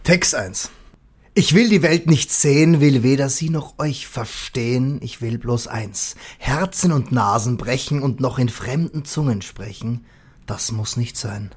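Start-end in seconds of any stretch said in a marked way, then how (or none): 1.3-11.5 slow, measured recital of a lyric; poem reading. Shown as a demonstration. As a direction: read it out like a poem, weighing each line. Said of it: "Ich fange an. Text eins".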